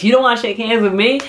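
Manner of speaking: mildly acted stunned question; shocked. Wrestler snubbed on a handshake, imitated shock. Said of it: "like, he's shocked".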